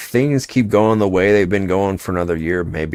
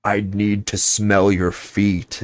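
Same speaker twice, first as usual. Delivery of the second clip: fawning fan voice; 3 semitones higher, slower than usual. Retold or imitated. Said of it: "I'll be, like, right under".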